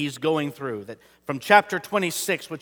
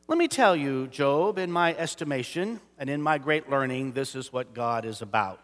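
smug Bildad; 4 semitones lower, 7 dB quieter than usual. Acted. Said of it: "here's Bildad trying to tell Job".

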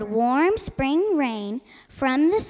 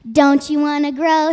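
scolding magpie; 7 dB louder than usual. Acted. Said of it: "said the magpie".

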